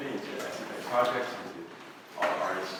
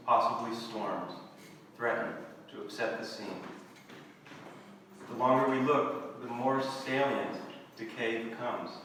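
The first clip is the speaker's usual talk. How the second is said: measured poem recital with long pauses; poetry reading. Acted. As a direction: read it as verse, phrase by phrase, letting each line settle. Reads own poem aloud.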